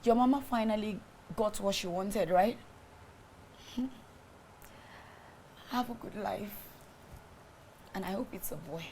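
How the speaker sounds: soft, cold farewell; quiet resignation. Acted. Wife quietly ending it with her husband. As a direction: let him go, quietly defeated.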